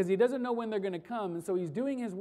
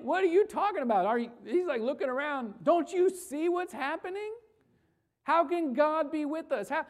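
incredulous Gideon; 3 semitones higher, 4 dB louder than usual. Acted. Gideon voiced in disbelief.

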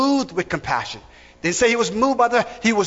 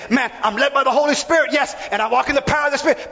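higher-pitched, quick mimicry of church people; self-assured believers; 5 semitones higher, faster than usual. Preacher mimics people who lack compassion, self-assured claim. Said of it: "we have people, they say".

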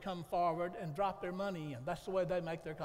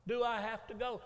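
put-on whiny child; 4 semitones higher, 3 dB louder than usual. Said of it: "he looked over at me and he said".

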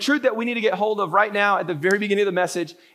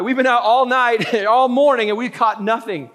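mock weary complaint; 3 semitones higher, 4 dB louder than usual. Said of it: "he's like John and I".

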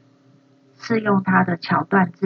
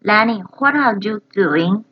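higher, startled stammer; imitating Frankie then Lenny; 5 semitones higher than usual. Learner echoing the brothers' exchange, higher and startled. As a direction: stammer caught out. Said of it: "copies clip".

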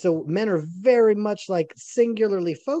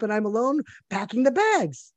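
mock wife complaint; 5 semitones higher than usual. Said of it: "And she's like".

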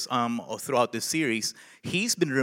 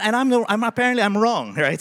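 higher and louder, laughing at himself; 7 semitones higher, 5 dB louder than usual. Real, not acted. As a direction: laugh it off while admitting the mistake. Laughs at his own mistake.

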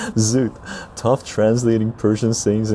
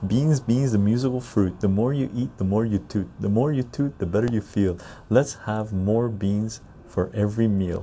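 reciting a rhyme. Shown as a demonstration. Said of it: "So U S version".

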